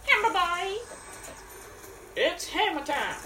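excited. Real, not acted. Excited reveal of hammer.

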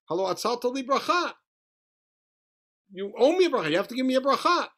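lightly acted demand, pitched high; indignant pleading. Esav demanding his blessing from his father, mock indignant plea.

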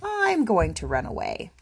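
high, plaintive complaint; crying out. Acted. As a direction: forlorn youngster's cry. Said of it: "And he cried".

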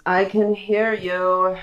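slow, deliberate character line; lightly voiced eavesdropper, words drawn out; man in the chair. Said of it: "he says".

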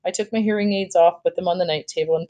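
expressive read-aloud with lightly voiced dialogue; story narration. A narrator's reading. Teacher reading a sad chapter to grade fours, expressive story narration.

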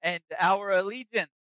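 a lightly voiced adventurer pledging allegiance; character voice. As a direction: pitch it up a bit and offer grandly. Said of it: "kinda to the dwarf and he says".

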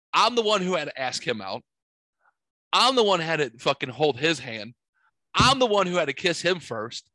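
hammed-up girlfriend listing grievances, climbing to a peak; Madea style. Girlfriend owning her boyfriend before the neighbors, Madea-style rant. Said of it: "like Madea style".

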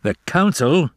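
high, angry emphasis; spat out. A narrator's reading. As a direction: spit out the words. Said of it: "spat Father".

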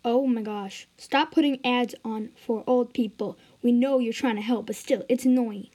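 loud exasperated griping; annoyed complaint. Acted. Viewer griping at ads for old people, loudly annoyed.

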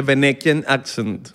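slow, Venezuelan-accented English; English drawn out in a Venezuelan accent. Shown as a demonstration. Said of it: "es el acento venezolano".

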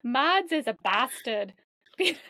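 American's mock British, laughing midway; playful attempt at British English; put-on British accent. American reading scripted tease about a friend, put-on British accent. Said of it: "talk like a British person".

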